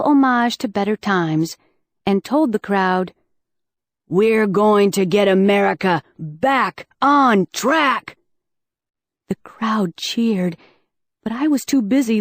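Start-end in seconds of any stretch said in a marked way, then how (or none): 4.1-8.2 slow, booming campaign slogan; campaign speech. Acted. Politician addresses rally crowd in slow speech voice. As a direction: sell it to the crowd like a candidate.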